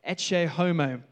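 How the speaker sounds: Ecce Homo in a bad Spanish accent; slow, hammy Spanish accent on Ecce Homo; awful Spanish accent. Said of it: "Apologies for my awful Spanish accent".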